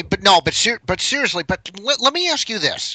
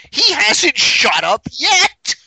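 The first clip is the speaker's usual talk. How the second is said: laughing; 5 semitones higher, 4 dB louder, slower than usual. Real, not acted. Laughing hard during host's banter.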